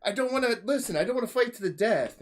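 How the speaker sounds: mock pleading. Voicing reluctant duelist.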